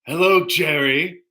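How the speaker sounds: lightly voiced sitcom nemesis; Newman from Seinfeld. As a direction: greet your rival in character, spoken. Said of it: "is Newman from Seinfeld".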